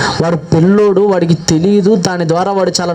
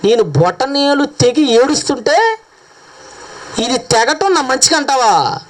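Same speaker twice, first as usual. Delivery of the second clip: angry king; 4 semitones higher, slower than usual. Retold or imitated. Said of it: "రాజుగారికి పిచ్చ కోపం వచ్చేసిందండి".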